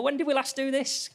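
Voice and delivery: mock wondering. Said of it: "you go".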